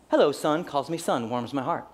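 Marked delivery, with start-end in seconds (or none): 0.1-0.6 dad's greeting. Retold or imitated. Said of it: "He's just always the same".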